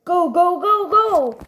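high mock battle urging; rapid-fire cheer copied from a game character; urgent imitation. Player echoing a brawler's voice line, high urgent call.

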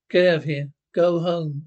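loud, angry dismissal; angry shout. Acted. Man throwing the uncivilized lot out of the room, angry shout. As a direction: throw them out with a yell.

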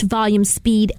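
swooping pitch, varied volume; wide pitch range. Shown as a demonstration. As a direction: demo expressive speech. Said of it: "Let's see if I can do this".

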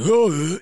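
high, loud imitated "oh"; mock dopey hoot. Comic mocking a protected stupid husband, dopey. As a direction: mimic a dim husband hooting.

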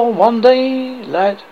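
king showing his son the kingdom, grandly slow; proud king father. Acted.

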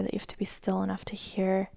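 soft unvoiced whisper. Shown as a demonstration. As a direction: whisper it gently, barely audible. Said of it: "It's a whisper".

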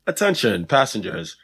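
slow, low pilot announcement over the intercom; mock pilot addressing passengers; airport announcement. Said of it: "get an overhead from the pilot".

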